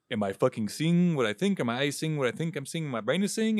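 rising, incredulous questioning; acted bewilderment, climbing in pitch; mock disbelief. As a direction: imitate a man doubting his own eyes. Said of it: "he's in disbelief".

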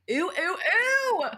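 high, rising squeals of disgust; hammed-up revulsion; mock disgust. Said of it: "dismissive, avoidant, was like".

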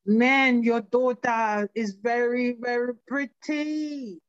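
put-on a light Jamaican accent, slow and drawn out on very pretty. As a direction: retell the neighbour in a mild Jamaican accent, slowing down. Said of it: "He had an accent to him".

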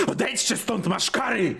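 panicked high-pitched pleading shriek; terrified and gasping, begging to be left alone; hyperventilating. Acted. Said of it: "znowu hiperwentylacja".

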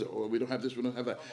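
soft, low mock whining; mock whine. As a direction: brush off the church like a sulker. Mimicking whiny church members.

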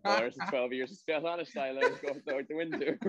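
mock sassy. Mocking a know-it-all critic.

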